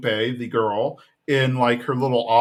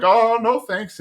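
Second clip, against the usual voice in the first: lightly flustered refusal; 9 semitones higher, 3 dB louder, slower than usual. Retold or imitated. Hank fleeing.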